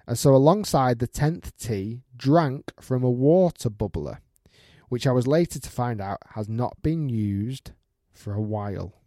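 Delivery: measured storytelling from an email; story read-out. Acted. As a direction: read it aloud like a tale unfolding. Reads out a listener's email.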